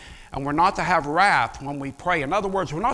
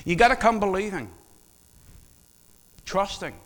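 ordinary delivery

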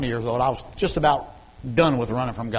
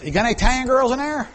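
put-on young self; 12 semitones higher, 7 dB louder, faster than usual. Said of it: "I says".

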